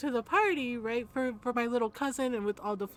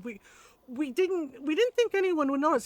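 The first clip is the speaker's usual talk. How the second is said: mock-nervous, higher-pitched faltering excuse; terrified stammering; 4 semitones higher than usual. Grown men terrified of Lola, stammering in mock fear. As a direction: imitate scared men stumbling over their defense. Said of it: "they are terrified of my Lola".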